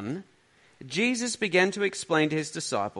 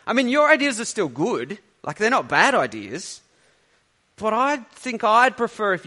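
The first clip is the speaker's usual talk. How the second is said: voicing us praying; 2 semitones higher than usual. Preacher imitating believers talking to God, mock-bargaining. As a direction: play a person politely overruling God, half-joking. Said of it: "We say to God".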